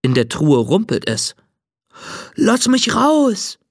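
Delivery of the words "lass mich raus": slow, drawn-out ghostly call from a chest. A narrator's reading. Trapped ghost in a chest calls for release, slow. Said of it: "ruft eine tiefe Stimme".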